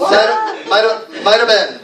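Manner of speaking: MIGHT HAVE as "mighta", loud and high; reduced might have. Shown as a demonstration. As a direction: drill might have as one linked word. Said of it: "We say".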